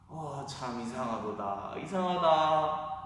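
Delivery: put-on slow, wondering mutter of a suspicious old man; puzzled old father. Blind Isaac feeling his son's arms, slow and puzzled. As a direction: drag out the puzzlement slowly.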